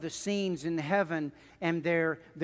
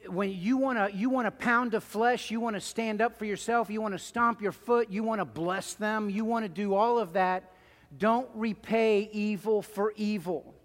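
rising exhortation; 4 semitones higher than usual. Real, not acted. Preacher building exhortation.

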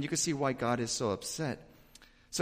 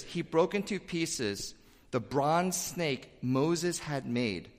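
slowed, deliberate reading of the verse; slow scripture reading; slower than usual. Shown as a demonstration. Pastor reading the verse to the congregation, slow and deliberate. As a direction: read it slowly, word by word. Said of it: "it says this".

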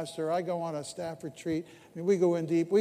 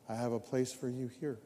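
simple, soft, lower voice of God; very simply; 5 semitones lower, 6 dB quieter than usual. Retold or imitated. God answering the praying pastor, simple and soft. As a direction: say it plainly and gently, softer and lower. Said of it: "the voice said very simply".

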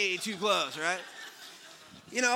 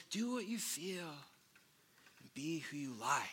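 mocking church folks; 4 semitones lower, 10 dB quieter than usual. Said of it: "church folks telling you".

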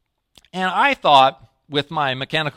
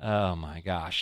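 dismayed sigh; 7 semitones lower, 8 dB quieter, slower than usual. Retold or imitated. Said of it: "And I'm like".

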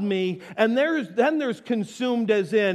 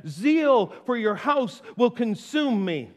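slow scripture reading; 2 semitones higher, slower than usual. Acted.

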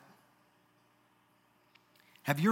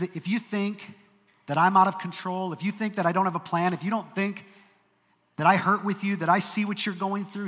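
higher, louder voice of God pressing Job; earnest voice of God; 4 semitones higher, 4 dB louder than usual. Acted. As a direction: speak as God, firm yet caring.

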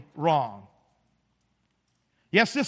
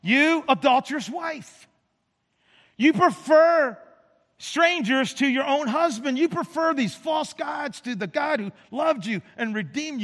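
harsh rebuke; 4 semitones higher than usual. Acted. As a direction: rebuke them like a prophet. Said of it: "Ezekiel says it pretty harshly".

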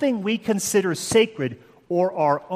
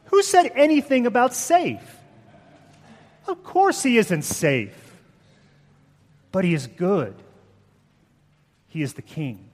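put-on horrible English accent; 3 semitones higher than usual. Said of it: "my horrible English accent".

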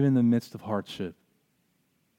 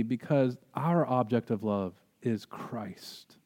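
prayer. Acted. Closing prayer.

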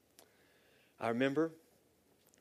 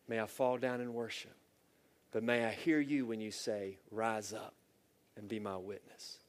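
measured, earnest prayer voice; closing prayer. Real, not acted. Pastor praying over listening church, earnest.

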